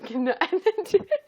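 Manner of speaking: high voice breaking with real laughter; helpless laughter. Real, not acted. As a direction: try to carry on, overcome by giggles. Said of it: "I literally cannot".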